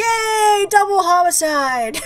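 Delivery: loud gleeful cheer; excited cheer. Real, not acted. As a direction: shout it out in triumph. Cheering after killing the witch.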